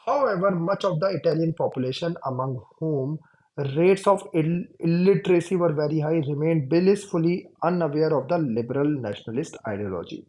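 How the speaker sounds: slow, deliberate reading aloud; textbook reading. Shown as a demonstration. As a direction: read each word out slowly for the class. Reads textbook passage aloud. (धीमे-धीमे किताब से पढ़कर सुनाना)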